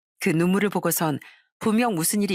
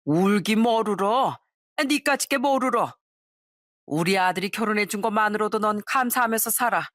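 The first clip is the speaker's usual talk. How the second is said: scornful mother-in-law. Acted. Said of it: "그건 바로 시모였어요".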